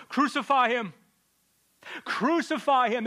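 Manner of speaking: high, loud chanting yell; crowd shouting. Acted. Preacher voices the frenzied crowd demanding crucifixion, yelling. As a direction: scream it like a bloodthirsty mob. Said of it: "They shout at the top of their lungs".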